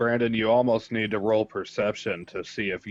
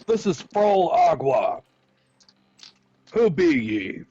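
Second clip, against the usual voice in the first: high, raised pirate-captain hail; captain's yell; 7 semitones higher than usual. Acted. Player as assumed captain hails the other ship, high yell. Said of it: "I would like to yell".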